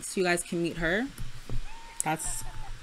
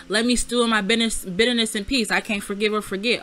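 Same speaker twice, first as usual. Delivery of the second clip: mocking quote; 2 semitones higher, 4 dB louder, faster than usual. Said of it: "Before, it was just".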